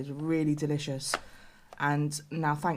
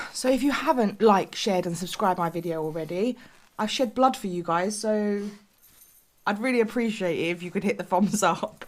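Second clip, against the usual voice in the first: excited; 4 semitones higher, 6 dB louder than usual. Real, not acted. Playful plea for likes.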